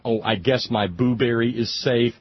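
mock-relieved, ponderous delivery; mock smart aleck. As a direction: play a chat-room wise guy, drawn out. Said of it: "smart Alex in the chat room".

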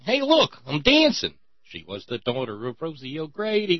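high, lightly voiced cartoon rabbit; sing-song like a cartoon rabbit dancing; Bugs Bunny bit. Bugs Bunny dancing for the cops, light cartoon voice. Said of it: "what they would have done to Bugs".

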